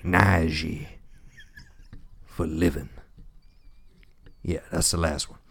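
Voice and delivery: lightly voiced folksy nominee talking to his mama; a hint of an earnest country boy thanking Mama; a touch of a hokey award-show character; Southern acceptance speech.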